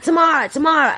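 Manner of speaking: high singsong name call; imitated calling-out, pitched well up; mock shout. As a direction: call your sister from another aisle. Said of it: "So I'm shouting out".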